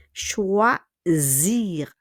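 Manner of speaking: "Choisir" drawn out, the S voiced as Z. Shown as a demonstration. Teacher models the French verb for learners, S as Z. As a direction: say "Choisir" slowly with a buzzing Z in the middle. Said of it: "le S will be pronounced as Z".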